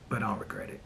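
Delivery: soft unvoiced whisper. Real, not acted. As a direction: whisper it like a secret to sister. Aside to sister after blame.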